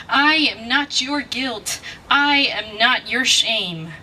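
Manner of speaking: slow, weighted words in "I am not your"; emphatic refusal. Acted. Poet refuses to carry guilt and shame, emphatic refusal. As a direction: draw out each word of "I am not your" deliberately.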